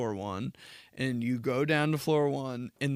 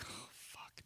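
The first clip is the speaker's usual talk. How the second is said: breathless whisper; whispered curse; 26 dB quieter than usual. Retold or imitated. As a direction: hiss it under your breath. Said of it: "I'm like".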